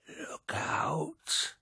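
high, voiceless, drawn-out wheeze; wheezed warning. A narrator's reading. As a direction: squeeze out a thin, high wheeze. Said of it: "he wheezed".

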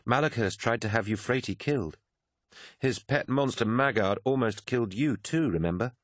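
a hint of an urgent Mercedy; Mercedy, a sharp young woman. Mercedy warning Sinderman about Malachhurst, insistent.

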